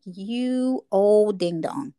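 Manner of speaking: slow, drawn-out mock insult; deliberate, slowed-down ribbing; retold put-down. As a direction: draw out each word in teasing scorn. Retold put-down after being corrected.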